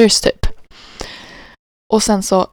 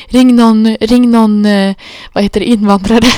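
panicked urging; 5 dB louder than usual. Retold or imitated. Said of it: "jag bara".

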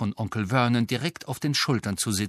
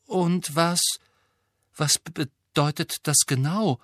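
Hermine voice; 5 semitones higher than usual. Acted. Hermine asks.

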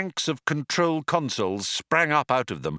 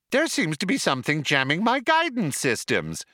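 brightly; 6 semitones higher than usual. A narrator's reading. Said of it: "explained the computer brightly".

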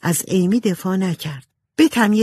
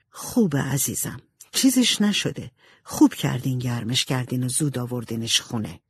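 gently calming mother, mostly lower and softened; motherly reassurance; 5 semitones lower, 4 dB quieter than usual. Acted. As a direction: mildly soothe a worried daughter. Marmee reassures frightened Jo. (دلداریِ آرام مادرانه)

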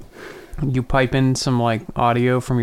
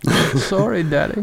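put-on childish voice; 5 semitones higher than usual. Mock childish apology.

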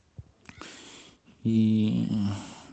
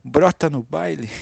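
put-on Rio accent; 5 semitones higher, 5 dB louder than usual. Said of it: "sotaque de carioca".

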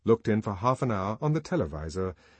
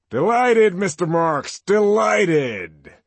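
very high, loud and gushing; deferential boom; 10 semitones higher, 11 dB louder, much slower than usual. A narrator's reading. Warden greeting Bernard, booming and deferential. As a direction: fawn over the visitor loudly. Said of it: "His boom was deferential".

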